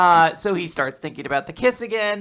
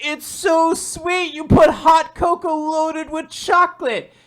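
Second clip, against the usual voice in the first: sweet delight; 11 semitones higher than usual. Acted. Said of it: "He's like".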